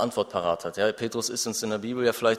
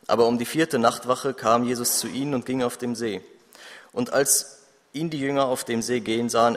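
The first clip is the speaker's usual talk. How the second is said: scripture reading. Acted. Preacher reads Matthew fourteen to the congregation, measured and solemn. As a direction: read the passage like a lectern reading.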